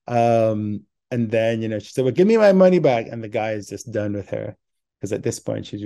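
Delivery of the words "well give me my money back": put-on drunk voice. Drunk lady demanding refund.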